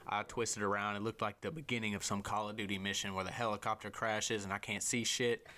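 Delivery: ordinary delivery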